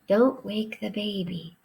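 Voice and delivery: hushed mock whisper; soft voice. Shown as a demonstration. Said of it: "She whispered".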